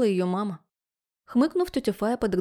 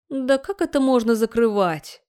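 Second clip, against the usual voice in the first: higher, louder, drawn-out indignant outburst; outraged roar; 4 semitones higher, 5 dB louder than usual. A narrator's reading. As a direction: roar in disbelief, stretching the words. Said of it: "взревела Гранатова". (возмущённый рёв)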